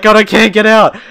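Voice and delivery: high, loud imitated shout; teacher yelling. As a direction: yell it as the angry teacher. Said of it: "And she's like".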